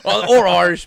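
loud laughing comeback about Irish ancestry. Real, not acted. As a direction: burst out laughing on it.

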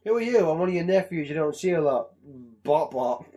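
lightly voiced startled Burns then meek kid; quick Simpsons reenactment, barely voiced; a hint of a startled old man asking; Simpsons quote. Acting a Simpsons scene.

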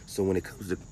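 a slight crack in the voice. Real, not acted. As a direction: let the voice crack mid-phrase. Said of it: "excuse me for my voice crack".

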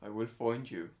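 lightly put-on Irish accent; measured threat with an Irish lilt; Liam Neeson. Co-host quotes a film threat, Irish accent. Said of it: "He's not that Irish in it".

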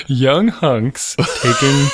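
slow, flat lyric reading; deadpan reading. Shown as a demonstration. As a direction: read it dry and slow. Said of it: "read it deadpan".

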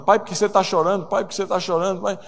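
voicing kids pressing their father; children questioning dad. Children nudging crying father in story.

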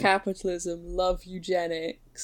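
lightly put-on British accent, slowing at the end. Teasing British people as evil spies, British accent. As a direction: recite it like a British villain. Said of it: "That didn't need to be the British accent".

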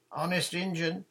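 high, loud Honest Injun; shouted. A narrator's reading. Nancy shouting her oath down to John, loud. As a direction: shout the oath back firmly. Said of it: "shouted Nancy".

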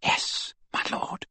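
breathless devoted whisper. Acted. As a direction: whisper it, eyes full of tears. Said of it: "whispered Bellatrix".

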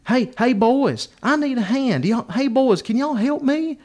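high, drawn-out mock female plea; hillbilly woman. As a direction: imitate a country woman calling for help. Teller voices the woman calling out.

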